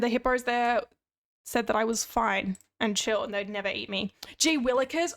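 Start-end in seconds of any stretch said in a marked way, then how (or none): 4.4-5.1 put-on old-fashioned exclamation. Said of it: "my mum says gee willikers".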